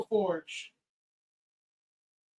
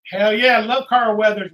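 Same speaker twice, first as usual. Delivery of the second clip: loud happy hell yeah; excited cheer; 7 dB louder than usual. Real, not acted. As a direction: burst out with joy.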